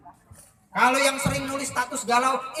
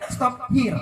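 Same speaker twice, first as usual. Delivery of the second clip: American style. Shown as a demonstration. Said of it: "American style agak kasar".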